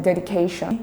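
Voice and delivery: "dedication" leaning on "ca"; stress on the K syllable. Shown as a demonstration. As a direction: let the "ca" in "dedication" carry the stress. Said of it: "we can feel the stress in the K".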